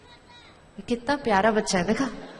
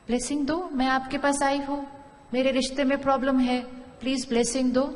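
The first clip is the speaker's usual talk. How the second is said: pleading request; 2 semitones higher than usual. Shown as a demonstration. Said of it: "इसको blessing दीजिए".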